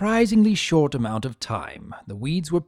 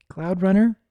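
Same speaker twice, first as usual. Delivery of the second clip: calling son; 7 semitones higher, 5 dB louder than usual. A narrator's reading. Mother calls her son.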